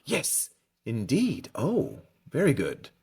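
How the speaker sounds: high, drawn-out exclamation of delight; delighted cry. Acted. Wandmaker applauding Harry's wand sparks, crying out delightedly. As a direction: cheer the wand's success in character. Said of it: "Mister Ollivander cried".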